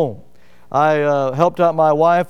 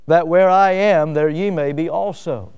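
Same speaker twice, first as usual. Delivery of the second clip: slow scripture reading. Acted. Reads scripture slowly, weighting each word.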